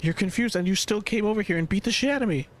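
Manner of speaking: can't believe what just happened; exasperated disbelief. Real, not acted. Gamer reacting to an enemy beating him, incredulous.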